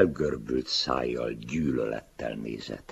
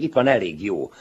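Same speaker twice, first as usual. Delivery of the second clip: higher and louder, eager to please; eager showing-off; 8 semitones higher, 9 dB louder than usual. Acted. Older writer eagerly showing his book to the young man. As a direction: push it at him, hoping for praise.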